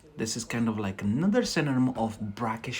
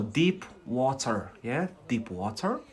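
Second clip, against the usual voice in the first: Scottish accent. Shown as a demonstration. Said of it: "I prefer the Scottish one".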